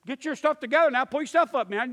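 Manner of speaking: loud, high-pitched bossy orders; pushy instructing. Retold or imitated. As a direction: imitate someone pushing people along. Imitates pushy instructional people.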